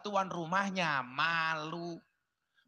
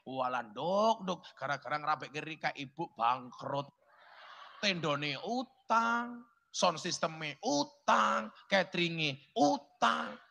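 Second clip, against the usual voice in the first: lamenting mother; 3 semitones lower than usual. Retold or imitated. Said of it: "ibu ini ngomong kayak kie".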